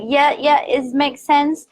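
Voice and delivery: a hint of forced cheer; fake agreement. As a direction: agree without meaning it. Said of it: "I've been like".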